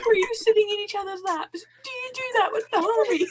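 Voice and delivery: imitating Ariel's accent. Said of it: "hear Ariel's in an accent say".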